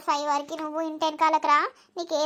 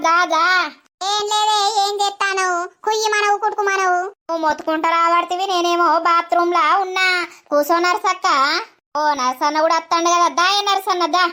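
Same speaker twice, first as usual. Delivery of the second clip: louder, eager greeting; loud welcome; 4 dB louder than usual. Acted. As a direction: call the guests in warmly. Welcoming guests loudly. (అతిథులను గట్టిగా ఆహ్వానిస్తూ)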